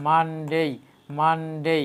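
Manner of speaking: মানডে drawn out as "maan-dey"; correct Monday. Shown as a demonstration. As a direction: hold the N in মানডে, then a long "dey". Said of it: "আমি আবার repeat করে দেখেন". (মানডে শুদ্ধ উচ্চারণে, "মানডেই")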